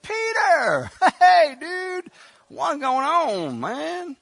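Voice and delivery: high, loud, laid-back hello; casual Tabitha. Retold or imitated. Tabitha casually greeting Peter on waking, high and loud. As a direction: greet him like it's no big deal. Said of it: "she got up and said".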